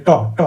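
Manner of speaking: ট, ট said as two short, separate sounds with the tongue tip on the ridge; demo of retroflex ট. Shown as a demonstration. Teacher demonstrating ট so students can watch the tongue, crisp and repeated. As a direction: tap out ট twice, clean and crisp. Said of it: "ট বলে দেখ".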